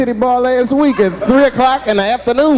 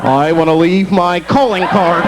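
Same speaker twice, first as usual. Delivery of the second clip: slow, gleeful villain boast; slow mock-proud announcement; proud burglar; 3 semitones higher, slower than usual. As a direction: savor it like a cocky crook. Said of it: "Wait a minute".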